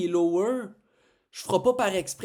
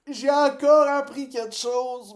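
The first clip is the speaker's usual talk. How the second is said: excited; 6 semitones higher, 6 dB louder than usual. Real, not acted. Repeats joyful realization.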